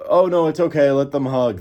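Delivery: police officer casually allowing the hug, mocked; mock easygoing police. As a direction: play the lax cop who waves it through. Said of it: "the police are like".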